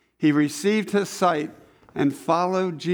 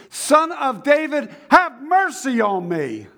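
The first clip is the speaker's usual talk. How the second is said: shouted all the more; 8 semitones higher, 4 dB louder, slower than usual. Acted. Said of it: "he shouted all the more".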